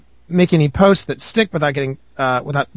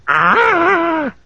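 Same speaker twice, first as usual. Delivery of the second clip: high-pitched drawn-out "Ah!"; long exasperated yelp, pitched way up; mock scream; 11 semitones higher than usual. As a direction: let out a high wail at the pets. Exclaims at kittens unplugging equipment.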